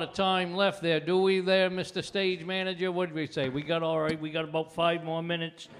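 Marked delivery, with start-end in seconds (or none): none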